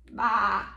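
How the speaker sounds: low sheep bleat; low, simple picture-book baa. Acted. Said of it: "Like a sheep".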